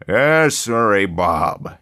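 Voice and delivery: jolly newspaper boss welcoming the new man; effusive editor. A narrator's reading. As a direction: greet him like an old friend with big jolly warmth.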